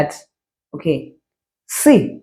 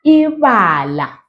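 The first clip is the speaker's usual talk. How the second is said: a bit quicker; 3 semitones higher, slower than usual. Shown as a demonstration. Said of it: "Maybe a bit quicker".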